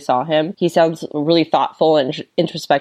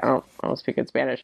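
put-on worried kid; 4 semitones lower, 8 dB quieter, faster than usual. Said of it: "worried about it".

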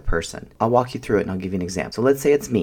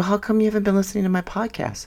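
indignant retold question; 11 semitones higher, faster than usual. Retold car quarrel with husband.

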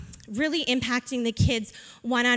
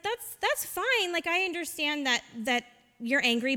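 soothing; 3 semitones higher, 4 dB quieter than usual. Retold or imitated. Soothing an angry child, retold.

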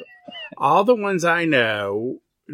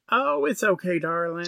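mild imitation of a Southern charmer; Leslie Jordan; 6 semitones higher than usual. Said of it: "he's like".

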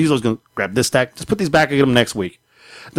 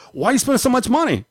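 wife's voice; 12 semitones higher than usual. Retold or imitated. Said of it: "it's like".

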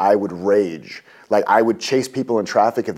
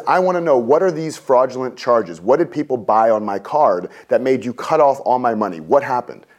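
getting madder. Retold or imitated. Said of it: "getting madder and madder".

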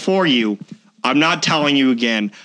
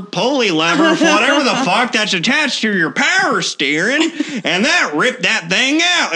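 higher, slow, excited southern army vet voice; lightly voiced redneck mechanic marvelling at the damage; 5 semitones higher than usual. The short army vet explaining the broken pulley, a higher, slower southern drawl. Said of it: "some southern hick looking dude".

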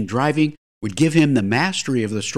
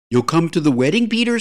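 higher-pitched, wistful appeal; 6 semitones higher, 3 dB louder, faster than usual. A narrator's reading. James invites his pal to the wedding, wistful. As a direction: ask it with mild longing, lifting on the name. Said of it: "said James wistfully".

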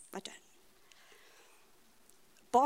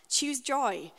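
quoting a slogan; 5 semitones higher, 4 dB louder than usual. Retold or imitated. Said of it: "talking about".

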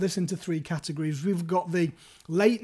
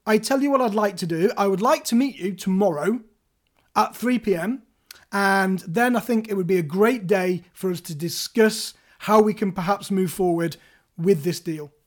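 direct assertive. Shown as a demonstration. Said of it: "So direct and assertive".

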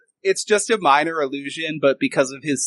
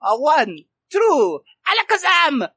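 put-on high accented showman voice, rising on the magic word; showy stage magician; 10 semitones higher than usual. Magician shows guests his first trick, high theatrical patter. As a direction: play a magician building to the trick.

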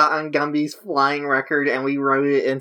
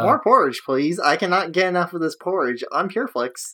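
put-on Midwestern accent; 3 semitones higher than usual. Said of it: "I was trying to do a Midwestern accent".

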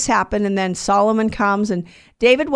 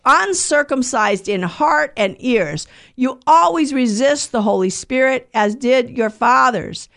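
scripture reading; 3 semitones higher than usual. Acted. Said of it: "what does he say?".

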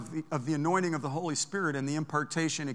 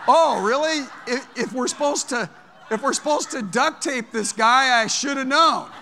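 loud, high, laughing disbelief; surprised; 6 semitones higher, 6 dB louder than usual. Retold or imitated. Preacher learning his brother volunteered him, laughing surprise. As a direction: act amazed you were signed up.

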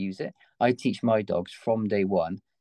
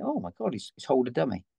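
much higher, thrilled puppy voicing; excited puppy voice; 4 semitones higher than usual. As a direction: squeal it like a delighted puppy.

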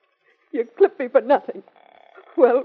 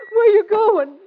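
raised voice; 10 semitones higher, 4 dB louder, slower than usual. Acted. Repeats louder.

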